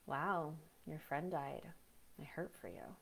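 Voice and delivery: detached sympathy. Shown as a demonstration. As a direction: say it like it barely touches you. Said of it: "I'm gonna use a personal experience".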